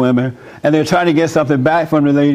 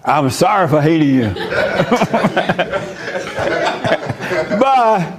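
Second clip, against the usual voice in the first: rushed mock apology; 3 semitones higher, slower than usual. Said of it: "she wanna hurry up and get this over".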